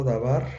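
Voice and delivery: dabar with the accent on its final syllable, bar; stress on last syllable. Shown as a demonstration. Teacher shows students an unmarked word's accent, dabar stressed on bar. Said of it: "la última sílaba es la que se acentúa".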